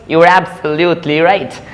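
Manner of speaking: "absolutely" spread out syllable by syllable; slow the phrase, spacing out "absolutely"; slow careful repeat. Shown as a demonstration. Teacher repeating an example for learners, slow and careful.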